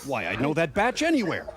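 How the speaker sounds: put-on Italian accent. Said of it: "Was that your Italian accent?".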